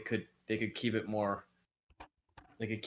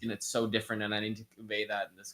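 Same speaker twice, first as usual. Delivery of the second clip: bad acting; 4 semitones higher, 10 dB louder than usual. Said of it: "I would come up with that idea and be like".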